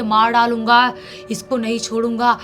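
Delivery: half-shouted threats of a male spirit; possessed man's voice. Acted. Possessed bride raves at the family, lightly heavy spirit voice. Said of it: "मोटी सी, भारी सी एक आदमी की आवाज़ में".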